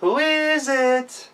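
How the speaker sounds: put-on high, slow child voices; small goats calling through the door; little kids. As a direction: ask like timid little kids. Children ask again.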